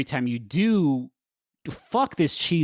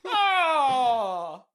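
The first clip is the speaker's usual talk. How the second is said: put-on Italian accent; much slower than usual. Mock Italian exclamation.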